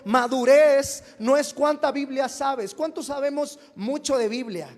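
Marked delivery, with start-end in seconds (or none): 0.1-2.7 "madurez" hit hard, whole line said louder; louder emphatic repeat. Shown as a demonstration. Pastor repeating his point to the church, louder and emphatic. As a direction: drive the point home, louder. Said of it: "Una vez más lo digo".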